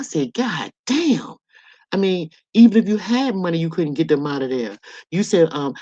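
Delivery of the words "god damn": high-pitched retold shock; stunned exclamation. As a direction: let disbelief swoop up on the curse. Retelling shock at life sentence.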